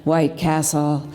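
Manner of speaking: lively spoken-word storytelling; poetry performance. Acted. Poet to a cafe audience about a night drive, spoken-word delivery. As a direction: tell the poem as a rolling late-night tale.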